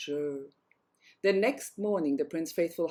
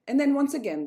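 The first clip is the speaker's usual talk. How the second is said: and then much higher and louder; higher, louder and then once again; rising emphasis; 7 semitones higher, 6 dB louder than usual. A narrator's reading. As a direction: build it up with alarm. Second crack, emphasized.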